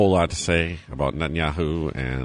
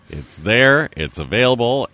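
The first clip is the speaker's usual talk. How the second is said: excited; 6 semitones higher, 6 dB louder than usual. Acted. Enthusiastic ad plug.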